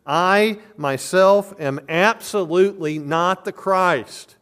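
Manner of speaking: a flat, forceful denial; absolutely emphatic. Retold or imitated. Preacher voicing John the Baptist's denial, emphatic and loud. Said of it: "The tone of this is".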